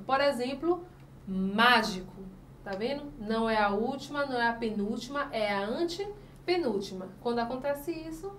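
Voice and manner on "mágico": "mágico" with the weight on "má"; antepenultimate stress. Shown as a demonstration. Teacher giving a proparoxytone example, stress on "má". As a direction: lean on "má" and let "gico" drop. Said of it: "quando a sílaba tônica for a antepenúltima".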